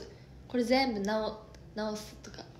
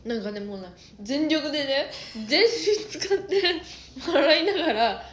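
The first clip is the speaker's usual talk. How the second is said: laughing; 4 semitones higher, 5 dB louder than usual. Real, not acted. Laughing retelling pillow fight.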